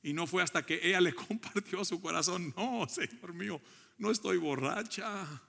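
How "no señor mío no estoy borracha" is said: lightly acted, higher-pitched protest; earnest protest. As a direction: plead innocence in a retold woman's reply. Acting Ana's reply to Elí's rebuke.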